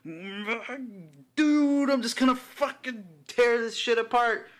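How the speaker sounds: hammed-up Wolverine about to shred everything; berserker rage. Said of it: "He's just like".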